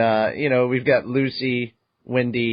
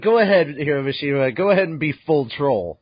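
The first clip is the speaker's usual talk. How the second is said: excited mock cheer; 2 semitones higher than usual. To co-host about the manga author, excited mock cheer. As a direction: cheer the troll on, half joking.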